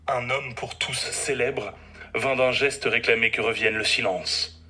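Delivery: measured, theatrical verse declamation; poem recital. Acted. Doctor reciting his rhymed tale of an evening to his patients, declaimed poem. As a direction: declaim each line, pausing between phrases.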